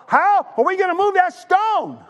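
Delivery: high anxious voiced question; worried women. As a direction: fret aloud as the worried women.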